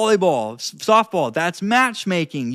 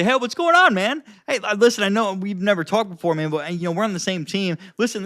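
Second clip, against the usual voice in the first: uplifting friendly tone. Shown as a demonstration. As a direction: sound approachable and upbeat. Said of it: "like, uplifting, more approachable".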